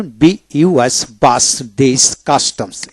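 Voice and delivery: বাস ending in a plain "s"; dental S. Shown as a demonstration. Teacher spelling out and reading examples, dental S demonstration. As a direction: say কাস্টমস with a dental "s". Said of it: "এটা দন্তাস্য হয়".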